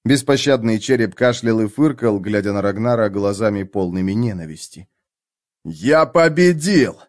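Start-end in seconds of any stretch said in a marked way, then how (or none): 5.6-7.0 gasping out a win; breathless and triumphant. Acted. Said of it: "выдохнул он".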